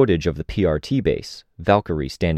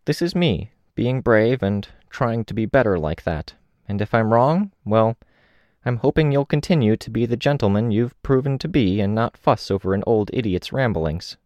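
put-on gently raised older woman's voice; a lightly voiced reflective old woman; 5 semitones higher than usual. Old woman speaking in story.

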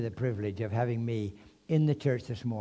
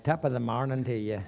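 put-on Irish accent. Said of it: "Just so you get the Irish right".

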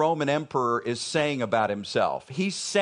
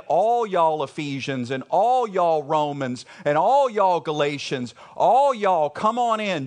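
rising welcome; 4 dB louder than usual. Acted. Preaching builds to invitation.

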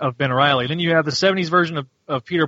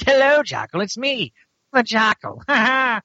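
hammed-up higher villain greeting; a playful Jackal voice, pitched up; mock villain voice; 7 semitones higher, slower than usual. Podcast host acting out the Jackal to cohosts, hammed-up.

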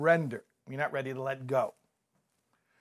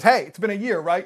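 eager pleading guy; 6 semitones higher, 7 dB louder than usual. Retold or imitated.

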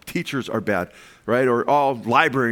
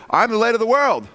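proclaiming as Jesus; 8 semitones higher, 4 dB louder than usual. Retold or imitated. Quoting Jesus' declaration.

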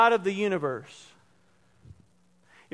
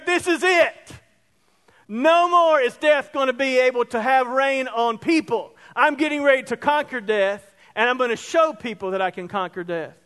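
determined resolve. Retold or imitated. Jesus resolving to conquer death.

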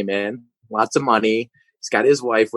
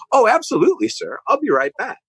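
sugary mock service voice, pitched up; fake politeness; 10 semitones higher than usual. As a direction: play the overly sweet server, tongue in cheek. Mock polite to drunk customer.

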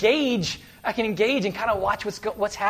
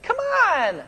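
high excited cry; excited exclamation; 13 semitones higher than usual. Acted. Preacher urging the congregation, excited cry. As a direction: throw it out with fervor.

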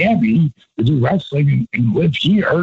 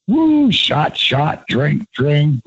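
whoop; much slower than usual. Retold or imitated. Drunken toast chant.

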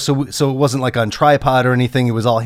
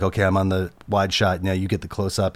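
whispering to each other; 5 semitones lower, 7 dB quieter than usual. Retold or imitated. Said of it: "we typically whisper to each other".

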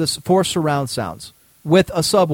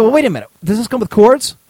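feigned afterthought; 6 semitones higher, 5 dB louder than usual. Retold or imitated. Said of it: "I said".

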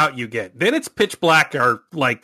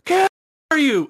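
high-pitched mock yell, no real volume; searching shout, held back in volume. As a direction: call out high for someone missing. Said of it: "you hear him yelling".

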